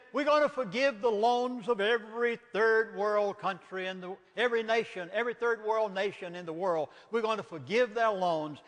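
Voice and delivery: a hint of pompous officials; mock self-righteous bankers. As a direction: parody their grand announcement. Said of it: "they made themselves look so good".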